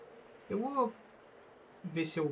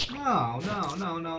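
high, louder frantic denial; panicked no; 3 semitones higher, 4 dB louder than usual. Real, not acted. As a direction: plead rapidly as it grabs you. Being caught again by creatures.

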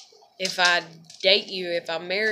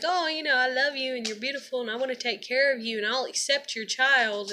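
mocking sweet talk; 5 semitones higher than usual. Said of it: "was like".

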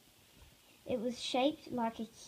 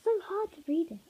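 whisper; 4 semitones higher, faster than usual. Real, not acted. Child's aside while reading aloud.

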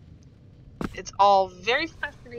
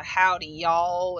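slow, lightly put-on Southern twang; slower than usual. Shown as a demonstration. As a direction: draw it out like a Southerner. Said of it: "you gotta get that twang".

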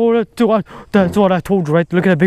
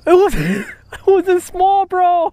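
excited; 13 semitones higher, slower than usual. Real, not acted. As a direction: shout at the huge fish. Fish turns out big.

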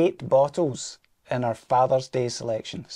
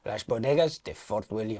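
Spanish accent; 3 semitones lower, 4 dB quieter than usual. Shown as a demonstration. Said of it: "You can do that in a Spanish ac-, accent".

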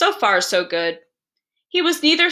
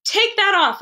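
higher, urgent father's command; alarmed cry; 9 semitones higher, 3 dB louder than usual. A narrator's reading. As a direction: demand it, scared for the boy. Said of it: "I cried".

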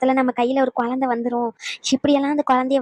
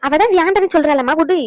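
loud, raised objection; exasperated protest; 3 semitones higher, 5 dB louder than usual. Acted. Defending the girl who refused milk, exasperated. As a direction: tell mother off for insisting.

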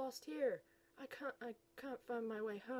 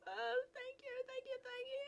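grateful gushing. Acted.

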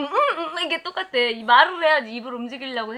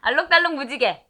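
faster, louder garbled mumble; mumbling; 2 semitones higher, 7 dB louder, faster than usual. Real, not acted. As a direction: mumble it quickly round a candy. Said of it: "이거 웅얼웅얼".

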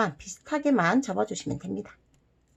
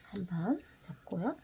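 soft whisper while folding; 2 semitones lower, 15 dB quieter than usual. Real, not acted. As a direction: whisper under your breath. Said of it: "whispering while folding".

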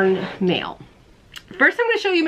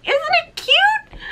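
put-on very high, slow baby voice; cutesy high coo; much slower than usual. Cooing at viewers over her own button in a high baby voice.

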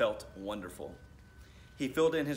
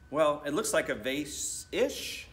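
exclaimed; 4 semitones higher, 4 dB louder, slower than usual. Acted. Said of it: "she exclaimed".

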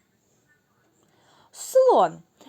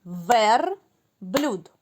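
clapped syllables. Shown as a demonstration. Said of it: "Плескаємо в долоні".

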